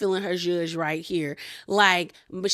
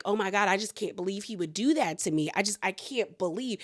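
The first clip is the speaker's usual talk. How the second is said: mock feigned hurt; 4 dB quieter than usual. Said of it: "trying to feign".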